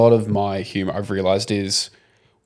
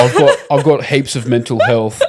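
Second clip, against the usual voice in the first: laughing mock customer; 3 semitones higher, 4 dB louder than usual. Repeating the customer line.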